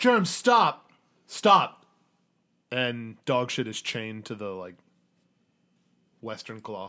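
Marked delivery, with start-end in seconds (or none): 0.0-1.8 loud, high, pitched-up calling voice. Voicing a chained figure who calls out to stop Germ: Dogshit calling to stop. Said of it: "it is Dogshit's voice".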